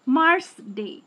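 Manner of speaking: "মার্স" light, "ডে" weighted; stress on ডে. Shown as a demonstration. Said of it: "ডে এর অবশ্যই স্ট্রেসটা বেশি".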